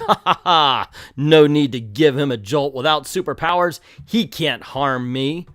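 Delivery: loud mock villain laugh into a boast; hammed-up villainous gloating. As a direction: gloat like a comic-book villain, slowing at the end. Villain gloats over fallen heroes.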